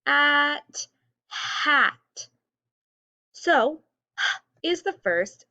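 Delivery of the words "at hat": At then hat, loud and raised; sounding out words. Shown as a demonstration. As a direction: stretch At, then blend to hat.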